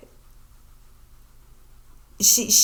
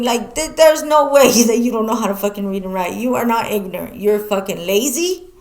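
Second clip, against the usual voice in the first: louder, firm telling-off with a laugh inside; scolding mom; 5 dB louder than usual. Retold or imitated. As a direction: lay it on the line to mom, half laughing. Scolding her mom about reading.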